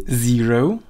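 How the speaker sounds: zero said clearly as ZEE-roh, z buzzed; model pronunciation. Shown as a demonstration. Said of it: "try to repeat after me".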